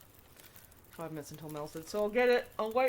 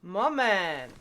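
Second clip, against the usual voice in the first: excited cheer; 5 semitones higher, 5 dB louder, much slower than usual. Real, not acted. Finding a laptop in the game, gleeful cheer. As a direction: savour the win in the game.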